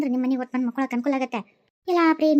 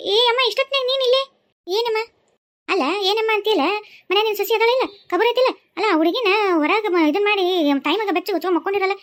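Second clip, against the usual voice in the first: high, raised voice telling her off; scolding; 4 semitones higher than usual. Acted. Neighbour scolds mother-in-law.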